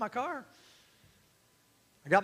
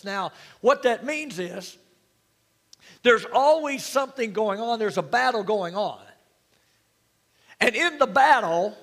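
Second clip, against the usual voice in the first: louder, driving sermon delivery; emphatic preaching; 2 semitones higher, 5 dB louder than usual. Real, not acted. Preacher rallying the congregation as the called out church, emphatic preaching. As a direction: preach it with force, punching the key words.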